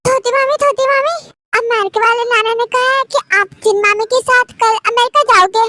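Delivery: put-on a small kid chattering to her aunt; child voice. Little niece Teha speaking. (छोटी बच्ची की आवाज़)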